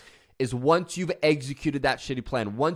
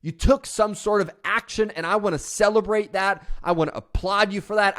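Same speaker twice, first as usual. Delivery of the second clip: self-celebration; 5 semitones higher than usual. Retold or imitated. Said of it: "look yourself in the mirror and go".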